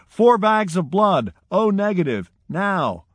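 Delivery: doctor howling orders to the nurse mid-crisis; urgent howl. Retold or imitated. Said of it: "howled to the assistant nurse".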